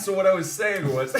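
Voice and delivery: mouth full. Real, not acted. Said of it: "Your mouth is so full".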